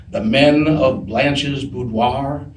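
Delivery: slow, lightly voiced co-star's line reading; B. Arthur. Co-star reads the gift aloud in the scene, slow lightly imitated delivery. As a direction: draw the line out slowly, with a hint of impression. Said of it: "B opens it up and looks at it and says".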